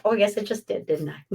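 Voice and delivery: usual speaking voice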